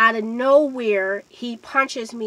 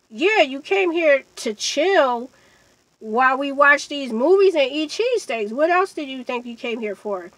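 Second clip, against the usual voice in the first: pointed comeback, pitched up at first; retold indignant retort; 3 semitones higher, 3 dB louder than usual. Storyteller retells answering the man back, indignant. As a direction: set him straight, starting high and emphatic.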